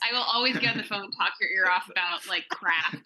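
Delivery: amused, breaking into laughter; laughing. Real, not acted. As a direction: chuckle it out to a friend. Joking between friends, laughing.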